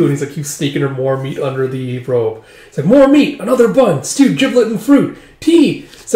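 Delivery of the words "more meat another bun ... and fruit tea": high, loud acted food order; mock greedy demanding; eager demands. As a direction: call out each dish in an excited high pitch. Greedy food orders in retold story.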